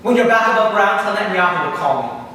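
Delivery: loud devil giving orders; a hint of the booming demon; commanding Satan.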